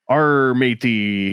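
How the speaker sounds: slow pirate growl of "arr"; pirate accent. Shown as a demonstration. Co-host showing the movie pirate accent, drawn-out pirate voice. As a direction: draw it out in a light pirate accent. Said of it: "the pirate accent".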